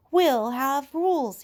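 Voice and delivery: loud, slow, eager call for rules; excited cry. A narrator's reading. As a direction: shout it out with boyish glee. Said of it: "he cried excitedly".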